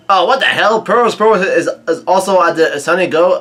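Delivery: high-pitched real surprise; startled disbelief. Real, not acted. Reader discovers the villain is at the ship, startled disbelief. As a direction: blurt it out, pitch jumping up. Reacting to a plot twist.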